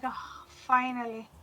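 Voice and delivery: relieved sigh. Retold or imitated. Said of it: "and I'm like".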